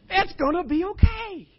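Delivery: loud, high, laughing mock cheerfulness, growing wilder; manic mock cheer. Preacher mocking his own forced cheer in line. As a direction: ham up forced, loud cheer for comic effect.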